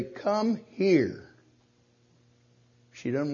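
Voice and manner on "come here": stern, drawn-out command to a grandchild. Shown as a demonstration. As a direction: order her over, no nonsense. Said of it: "if I look at her sternly and say".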